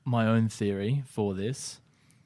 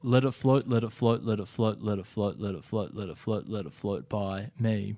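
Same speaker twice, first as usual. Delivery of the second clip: put-on New Zealand accent. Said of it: "read all the lyrics in a New Zealand accent".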